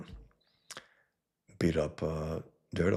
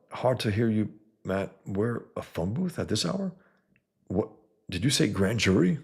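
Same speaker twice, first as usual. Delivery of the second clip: higher, jittery worried friend; worried Foggy voice; 3 semitones higher than usual. Acted. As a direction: fret like a nervous worrywart.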